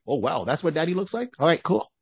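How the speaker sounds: put-on high, casual kid voice; delighted little girl. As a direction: shrug it off like a thrilled child. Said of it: "the little girl's like".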